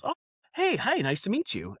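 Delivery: high-pitched mock white American greeting; white person impersonation. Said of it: "like, white person impersonation".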